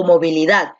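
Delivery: "movilidad" with the stress on final DAD; stress on last syllable. Shown as a demonstration. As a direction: land firmly on DAD in "movilidad". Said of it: "la fuerza de voz está aquí en dat".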